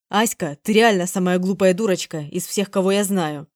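man scolds her loudly. Acted. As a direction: raise your voice at her. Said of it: "на повышенных тонах".

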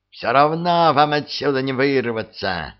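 lightly voiced hysterical yell; a touch of panic, shouted. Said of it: "истерично закричал обер-лейтенант". (истеричный крик)

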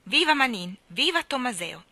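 rousing cry of praise; crowd cheer. Acted. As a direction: hail them like a jubilant crowd. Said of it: "Il popolo gridò soprattutto".

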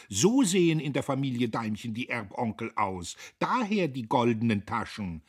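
high, loud scornful exclamations; exclaiming. A narrator's reading. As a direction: call it out mockingly. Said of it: "rief Magda".

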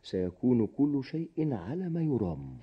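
soft, gentle consolation; reassuring. Acted. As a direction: softly comfort a sad friend. Consoling a despondent friend. (بهدوء مواسٍ)

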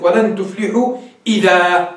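slow, ending ولن تفلحوا إذا on a long a, idhaa; reciting the verse to show the alif pause; pausal alif on idhaa. Shown as a demonstration. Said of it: "إذا وقفت هكذا".

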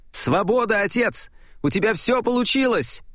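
high, elated cry of freedom; joyful. Acted. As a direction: burst out with delight. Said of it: "Икар рассмеялся". (радостно, звонко)

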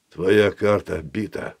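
measured, muffled golem voice, slowly; a lightly voiced stone golem; slow stone monotone. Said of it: "мерным глуховатым голосом".

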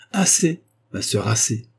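exasperated interruption. Acted. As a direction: cut her off, weary of it. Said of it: "interrompit le vieux gentilhomme". (le baron interrompt sa sœur, agacé)

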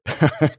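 a short, gloating villain's laugh; sinister laugh. A narrator's reading. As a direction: laugh as the plan becomes clear. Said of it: "Комнату озарил смех".

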